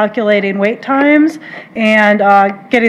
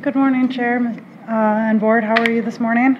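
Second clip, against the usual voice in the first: real meek, softer greeting; meek and quiet; 3 semitones higher, 5 dB quieter than usual. Real, not acted. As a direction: greet the board softly and meekly. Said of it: "more meek and quiet".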